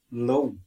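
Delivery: low said with an oh sound, not Ulster law; other dialects. Shown as a demonstration. Teacher contrasts low from other dialects. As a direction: give the southern low. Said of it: "other places, they pronounce it low".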